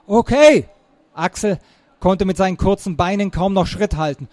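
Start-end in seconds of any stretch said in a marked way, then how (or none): 0.1-0.7 loud, high breathless agreement; eager puffed-out okay; winded shout. A narrator's reading. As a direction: call back while running. Axel agrees while running.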